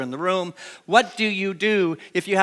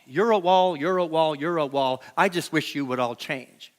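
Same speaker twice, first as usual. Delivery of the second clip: mock blaming the wall; 2 semitones lower than usual. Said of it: "It's all the wall's fault".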